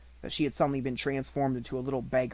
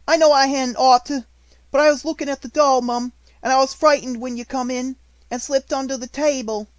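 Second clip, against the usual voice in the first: much higher, louder hurried plea; a cornered servant girl; frightened maid; 12 semitones higher, 10 dB louder than usual. A narrator's reading. Maid pleading with the headmistress, high and scared. Becky frightened before mistress.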